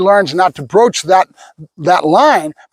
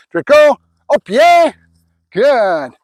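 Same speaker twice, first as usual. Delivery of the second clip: praising the dog; 4 semitones higher, slower than usual. Real, not acted.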